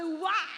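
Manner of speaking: mimicked bawling "uá"; child's wail imitation. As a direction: wail it like a crying kid. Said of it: "choro de menino".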